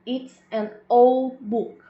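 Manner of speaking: breathless slow whisper, no voice; whispered example. Shown as a demonstration. Teacher whispers the example sentence to the class, slow whisper. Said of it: "um outro exemplo aqui".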